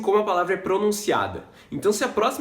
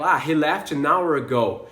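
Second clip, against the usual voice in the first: slow demo; 2 semitones lower than usual. Shown as a demonstration. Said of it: "se eu vou falar".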